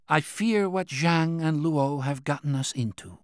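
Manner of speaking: lightly voiced anxious official; Qian's voice. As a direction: press the point like a worried old minister. Qian speaks at length.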